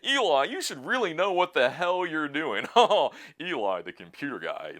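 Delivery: sneering, laughing mock voice, high and loud at the start; hammed-up taunt from smug commenters; mocking critics. Vlogger voicing commenters laughing at him, loud sneering mock. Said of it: "They're like".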